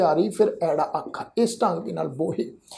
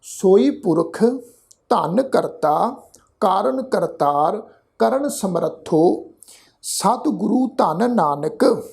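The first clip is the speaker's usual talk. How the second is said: slow, careful repeat for students; slow repeat recitation; slower than usual. Shown as a demonstration. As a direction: say it again slowly so they hear every word. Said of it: "ਇੱਕ ਵਾਰ ਫਿਰ ਤੋਂ repeat ਉਚਾਰਨ".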